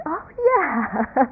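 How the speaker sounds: unconvinced, reluctant oh yeah; half-hearted agreement. Retold or imitated. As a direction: agree without meaning it. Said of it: "I'd look and".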